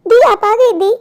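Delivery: lightly voiced eager little girl; little sister voice. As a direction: ask like an impatient child. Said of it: "Pinky मुझसे सवाल पूछेगी".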